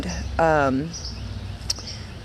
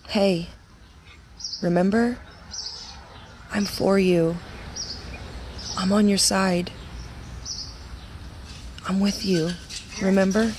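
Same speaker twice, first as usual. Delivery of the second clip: a touch softer, gently reassuring; gentle, loving; 2 semitones higher, 6 dB quieter than usual. Retold or imitated. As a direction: speak kindly, like a patient father. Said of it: "he just gently, lovingly spoke".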